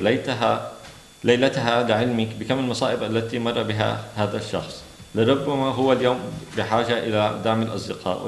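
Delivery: brisk, even reading of a novel passage; قراءة سردية متواصلة; story narration. Acted. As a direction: read the excerpt steadily to an audience. Reads second Arabic excerpt aloud.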